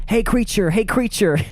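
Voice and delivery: half-yelled taunting call; mock teenage yelling. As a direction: call out like a rowdy teenager, held back. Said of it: "drove back and were yelling".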